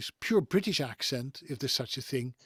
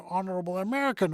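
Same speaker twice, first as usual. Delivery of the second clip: put-on American accent, higher pitch; 5 semitones higher, faster than usual. Shown as a demonstration. Mimicking advice to sound more marketable, American accent. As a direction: slip into a mock American accent. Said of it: "so you can sound American".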